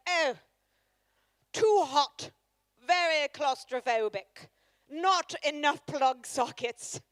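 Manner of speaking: a lightly voiced posh snob listing complaints; wife's snobby review voice. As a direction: sniff out each complaint like a fussy critic. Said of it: "So she'll continue to sound like that".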